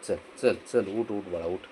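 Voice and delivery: soft, low, repeated urging; gentle coaxing. Real, not acted. Owner coaxing the little one to get up, soft gentle urging. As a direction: coax softly and tenderly.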